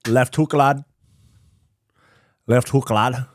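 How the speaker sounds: put-on amateur Liverpool accent; Scouse accent attempt. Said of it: "your Scouse accent attempt".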